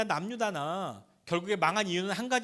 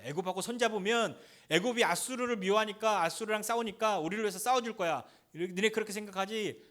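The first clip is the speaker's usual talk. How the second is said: sneering, pushy jeer at a cornered enemy; lightly voiced scornful general; mocking taunt; 3 semitones higher than usual. Rabshakeh taunting the people of Jerusalem, a lightly mocking jeer. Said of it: "조롱하고 압박하는 거예요".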